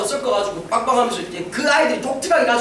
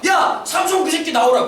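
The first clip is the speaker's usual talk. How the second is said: mock crowd shout; 4 semitones higher than usual. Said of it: "사람들이 막 소리치고".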